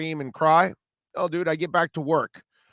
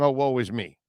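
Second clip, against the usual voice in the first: mock whine; 5 semitones lower than usual. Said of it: "catch me saying".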